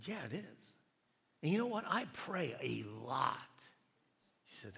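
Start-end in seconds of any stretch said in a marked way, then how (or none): 0.1-3.4 higher-pitched, insistent retort; growing frustration. Retold or imitated. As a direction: stretch it out, frustrated and self-justifying. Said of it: "I'm getting frustrated, more and more frustrated".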